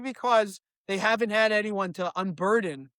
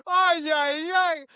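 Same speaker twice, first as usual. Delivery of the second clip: put-on Israeli accent; 5 semitones higher, much slower than usual. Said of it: "you're like".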